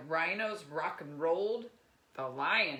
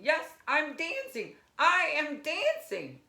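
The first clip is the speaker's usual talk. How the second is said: much higher, loud jubilant shout; ecstatic cry; 11 semitones higher, 8 dB louder than usual. Acted. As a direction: shout it out, overjoyed. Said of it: "Gerald cried".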